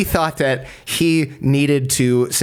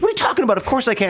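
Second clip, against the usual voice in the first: mock indignant disbelief; 11 semitones higher, much faster than usual. Indignant guy in retold debate.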